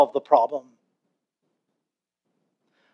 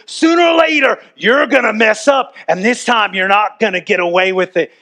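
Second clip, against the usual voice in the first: mad policeman. Retold or imitated. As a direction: threaten him like a suspicious cop. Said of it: "He's so mad".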